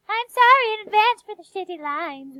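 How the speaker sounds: mock voice. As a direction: squeal it in a silly voice. Reading the clip's end.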